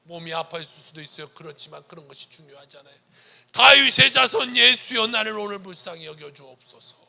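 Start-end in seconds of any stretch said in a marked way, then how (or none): 3.5-7.0 crying out. Acted. Blind man calling Jesus at the top of his lungs. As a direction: call out at full voice. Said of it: "목청껏 불렀을 것이에요".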